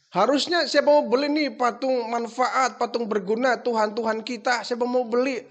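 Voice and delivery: father demonstrating the proper way to sell; the right sales pitch. Retold or imitated. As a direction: show the son how it should be called. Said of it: "Harusnya begitu".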